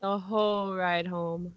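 deadpan, unamused. Real, not acted. Friend recalling the car ride accent, unamused. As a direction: say it thoroughly unimpressed. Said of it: "You sound very unamused".

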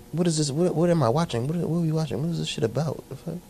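softly baffled what is this; muttered confusion. Real, not acted. Friend baffled by the movie, quiet mutter. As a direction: mutter it under your breath, lost.

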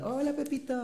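imitating friend calling. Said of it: "me decía".

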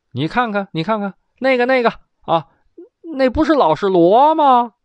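put-on a gleeful emperor spotting his old friend; excited emperor. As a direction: point and exclaim, building up.

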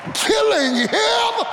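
high, slow shouted peak of the build; shouted climax. Acted. Preacher to congregation at the climax, shouting it out. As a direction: hit it hard and high, stretch it out.

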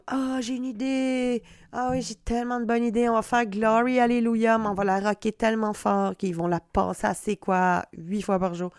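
hammed-up artist pitching an idea; lightly voiced know-it-all producer; playful impression of a cocky rocker; mock eager musician. Mocking an overeager musician arranger.

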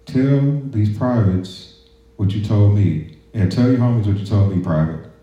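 high, mocking drill sergeant voice; drill sergeant taunt. Drill sergeant taunting a silent private in formation, high mocking bark. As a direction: sneer it like a sergeant baiting a recruit. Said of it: "He's like".

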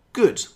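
good said high and loud; stressed good. Shown as a demonstration. Teacher stressing the replacement word good. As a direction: lands hard on good. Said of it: "was eventually replaced with".

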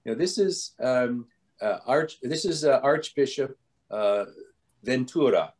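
lightly imitated Italian accent, halting; hesitant introduction in a mild put-on Italian accent; a hint of an Italian archbishop's accent. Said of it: "a man with a heavy Italian accent".

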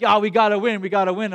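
a half-loud coach's yell, retold. Climbing teacher urging him up the wall, mild mock yell. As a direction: cheer him on like a pushy coach, mildly. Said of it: "So he's yelling".

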